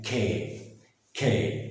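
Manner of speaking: खे with a soft puff after the k; lightly aspirated खे, held open; between K and KH. Shown as a demonstration. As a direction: say खे halfway between का and ख. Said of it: "के बीच वाला sound लें".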